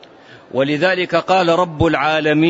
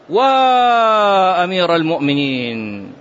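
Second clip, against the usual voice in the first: mourning cry; slower than usual. Retold or imitated. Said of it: "تنعى".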